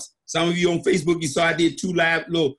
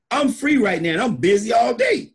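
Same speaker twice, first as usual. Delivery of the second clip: emphatic; 5 semitones higher than usual. Real, not acted. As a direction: shout out the point. Stressing being busy.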